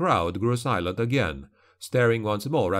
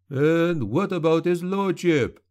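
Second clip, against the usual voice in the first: slow, high snarling heckle from the back; a crowd heckler's slow snarled challenge; angry snarl; 6 semitones higher than usual. A narrator's reading. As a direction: snarl it at him. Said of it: "an angry voice snarled".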